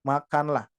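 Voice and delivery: normal talking voice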